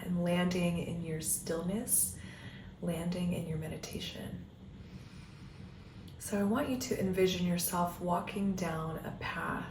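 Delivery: calm meditation guiding with long pauses; guided meditation. Acted. Coach leading listeners down an imagined path, guided meditation voice. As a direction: guide them gently inward, leaving space between phrases.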